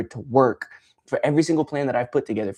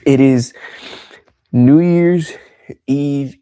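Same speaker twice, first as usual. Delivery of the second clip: raised, loud call-out to the chat; loud hype greeting; 5 semitones higher, 9 dB louder, slower than usual. Real, not acted. Streamer calling out to his chat, loud and hyped. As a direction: pump up the viewers.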